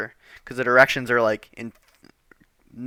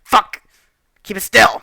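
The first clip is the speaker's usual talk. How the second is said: louder, higher mock yell of an angry dad; 8 semitones higher, 9 dB louder than usual. Dad yelling at son holding the door, shouting. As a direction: bark it like a frustrated father. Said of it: "My dad's like".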